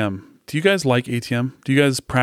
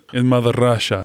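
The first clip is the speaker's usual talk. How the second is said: put-on drunk Russian accent. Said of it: "It's a drunk Russian".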